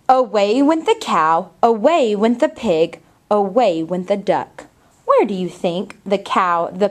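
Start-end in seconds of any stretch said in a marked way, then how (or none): 0.1-4.7 cow voice. Acted. Reads picture book aloud.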